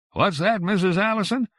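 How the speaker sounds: high, loud phone shout. Acted. Grocer shouting over the phone, loud and high. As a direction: shout down the bad line. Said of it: "said loudly".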